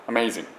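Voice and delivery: アメイジング said katakana style, every syllable ending in a vowel; アメイジング flat and syllable-timed like a Japanese word; Japanese-style amazing. Shown as a demonstration. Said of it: "今僕日本語的に喋ってます". (日本語っぽいアメイジング)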